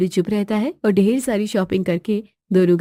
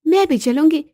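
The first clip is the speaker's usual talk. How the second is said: wife's voice, slightly raised; mildly insistent, higher than narration; 4 semitones higher than usual. Acted. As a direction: announce you are tagging along. Wife first says she'll come.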